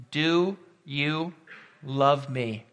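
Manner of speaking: spaced out, a pause before the last words; slow, solemn question. Acted. Preacher voices Jesus asking Peter about love, slow and solemn. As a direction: let each word stand alone.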